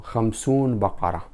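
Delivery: "خمسون بقرة" said fast, as non-native speakers say it; imitating learners' mistake. Teacher imitating non-native speakers to the class, quick mock mistake. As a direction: mimic the foreigners' "خمسون بقرة". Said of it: "They said so".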